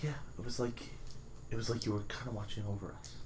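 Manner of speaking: soft hushed voice; quick quiet confiding; stage whisper. Acted. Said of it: "stage whisper then".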